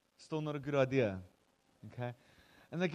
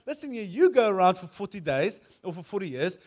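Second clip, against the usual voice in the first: mock rebellious troops; defiant rebels; 3 semitones higher, 8 dB louder than usual. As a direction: bark it like a mutineer. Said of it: "a bunch of guys like".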